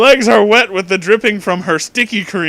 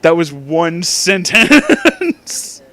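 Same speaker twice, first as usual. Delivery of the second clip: laughing disbelief; 2 semitones higher, 4 dB louder, much slower than usual. Real, not acted. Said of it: "laughing repeat of the line".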